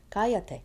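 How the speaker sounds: "cállate" as CA-ya-te; first syllable of "cállate" strong, the rest falling; stress on CA. Shown as a demonstration. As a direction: lean on "cá" in "cállate". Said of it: "And now the ca".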